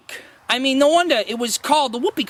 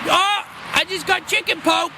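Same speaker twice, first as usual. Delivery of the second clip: silly joke voice; 8 semitones higher than usual. Shown as a demonstration. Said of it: "go ahead and do it".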